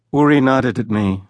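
usual speaking voice

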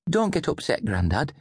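put-on high, hushed-style child's voice, not a true whisper; whispering boy. A narrator's reading. Boy comforting his upset grandfather, high whispering-boy voice. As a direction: soothe him in a small boy's voice. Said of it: "Davy whispered".

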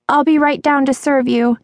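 put-on high girlish voice; high-pitched young waitress. A narrator's reading. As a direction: promise service in a high voice.

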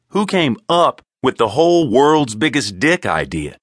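indignant accusation. Acted. Simon quarrels with Horn.

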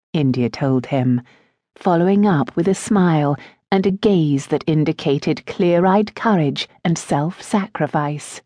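usual speaking voice

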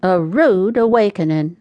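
usual speaking voice

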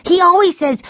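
put-on very high, loud child's voice; alarmed boy crying out. A narrator's reading. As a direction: protest like an upset little boy. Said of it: "Benny cried".

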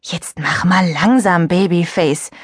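slow, drawn-out put-down; a cool girl slowly mocking a younger one; condescending. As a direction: talk down to her. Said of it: "mischte sich Jolina ein".

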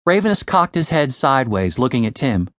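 ordinary delivery, nothing marked

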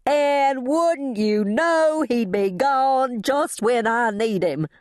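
slow, high, drawn-out lament; anguished, stretched-out high cry; wailing. A narrator's reading. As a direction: wail in self-pitying despair. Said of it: "as I wailed".

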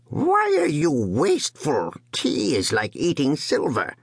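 high, slow, miserly grumble; complaining old man. A narrator's reading. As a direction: scold the son like a stingy old father. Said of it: "he began to complain".

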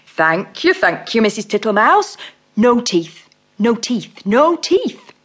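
slow, fat, comfortable toad voice; fat-voiced toad. Mr Jackson makes himself at home, slow fat toad voice. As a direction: settle in like a contented fat toad.

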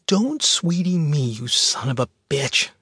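angry shout. Acted. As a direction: spit it at him in rage. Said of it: "she shouted".

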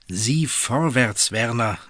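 slow, steady encouragement; scene: wife urges her worried husband to act, encouraging. Acted. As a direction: lift her husband's spirits, slowly. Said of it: "ermunterte ihn Gertrud".

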